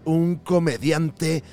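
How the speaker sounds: movie trailer voice. Acted. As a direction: build suspense like a trailer. Continues the trailer-style introduction.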